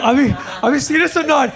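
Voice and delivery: half-shouted joking plea; teasing friend's mock outburst. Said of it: "He's like".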